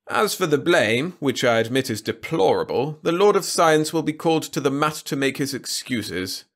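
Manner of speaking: lordly, lofty king voice; haughty ruler. A narrator's reading. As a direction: talk down from the throne. Trescu pleasant demeanour.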